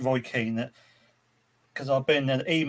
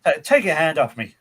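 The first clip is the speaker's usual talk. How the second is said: put-on Irish accent retry; 4 dB louder than usual. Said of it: "Let's try that accent again".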